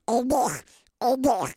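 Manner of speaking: put-on high, loud eager boy voice; excited little boy. Little boy thrilled about Hollywood, high and loud. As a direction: bounce it up like a thrilled kid. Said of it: "Heard a little boy going".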